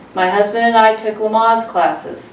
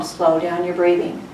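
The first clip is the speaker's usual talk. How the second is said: calm coaching; 3 semitones lower, 3 dB quieter than usual. Shown as a demonstration. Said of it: "I always tell them".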